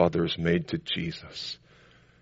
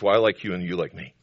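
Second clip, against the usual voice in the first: mocking; faster than usual. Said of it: "a unity that transcends".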